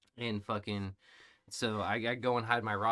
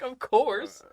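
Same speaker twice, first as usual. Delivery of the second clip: emphatic agreement; 13 semitones higher, 8 dB louder than usual. Retold or imitated. Retold reply to the kids.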